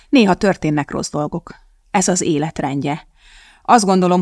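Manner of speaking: ordinary delivery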